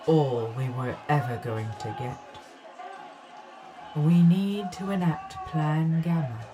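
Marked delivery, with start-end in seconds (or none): 4.0-6.4 urgent call. Acted. Leader raises voice amid chaos.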